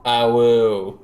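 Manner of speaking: short mock wolf howl; a quick little awoo. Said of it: "I said awu, not uwu".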